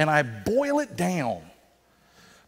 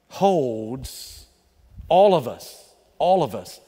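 building preacher emphasis; 5 dB louder, much slower than usual. Real, not acted.

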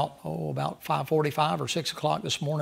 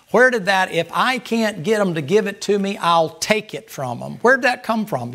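loud preaching; 4 semitones higher, 5 dB louder than usual. Acted. Preaching at full force.

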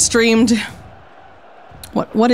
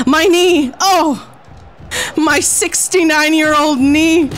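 higher, hammed-up elderly wail; old lady in pain; 6 semitones higher than usual. Sixty-nine-year-old wrestler hurt in the ring, hammed-up wail. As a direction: cry out like a creaky old woman hurt in the ring. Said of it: "My character is sixty-nine years old".

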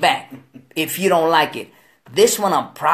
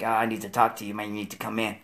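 imitating the lawyer; 8 semitones lower, 10 dB quieter, faster than usual. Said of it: "He called me like".

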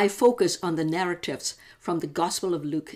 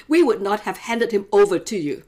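indignant leaders; 3 semitones higher, 6 dB louder than usual. Acted. Leaders answer Pilate's question.

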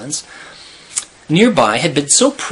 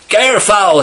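high, raised storyteller's scream; 8 semitones higher, 4 dB louder than usual. A narrator's reading. Hunter alerting the men to the great auks, screamed. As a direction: cry it out high, like a sudden sighting. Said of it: "he screamed".

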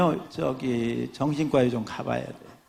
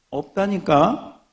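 slow, louder irritated snap; annoyed retort; 4 semitones higher, 5 dB louder, slower than usual. Acted. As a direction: drag it out, fed up with the rabbit. Annoyed shop owner retorts.

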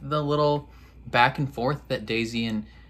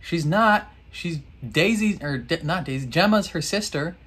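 answering the show; 6 semitones higher than usual. Retold or imitated. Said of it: "And I was like".

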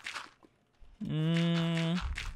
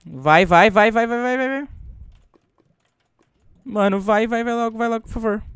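urgent urging; 4 semitones higher, 4 dB louder than usual. Real, not acted. Urging block to place before timer.

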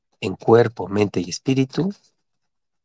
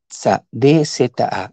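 deletreo lento; 2 semitones higher, 4 dB louder than usual. Shown as a demonstration. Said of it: "Y le vas a agregar".

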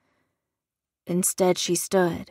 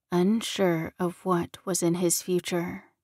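ordinary delivery

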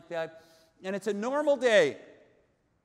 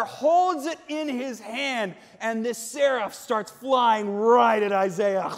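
raised, urgent storytelling; full-force preaching; 5 semitones higher, 7 dB louder than usual. Acted. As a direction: drive the action forward with force. Preaches the seraph's attack.

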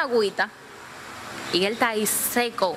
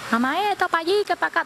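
higher-pitched mock tirade; imitated cursing; 7 semitones higher than usual. Girls fighting and swearing on the boat, imitated cursing. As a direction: rattle off stand-in curses, lightly acted. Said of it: "La muchacha dice mucha mala palabra".

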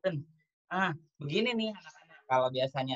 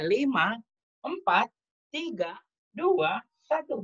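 countdown; 4 semitones higher, much slower than usual. Real, not acted. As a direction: count them down to the start, building up. Countdown to start egg race.

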